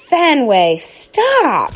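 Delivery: put-on girl snapping at her dog; sharp snap. A narrator's reading. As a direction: stop the dog short. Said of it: "Hattie snaps again".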